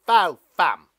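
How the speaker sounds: loud booming yell; bellowed chant from a towering stalk. Acted. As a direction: yell it so everyone can hear. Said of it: "it yelled".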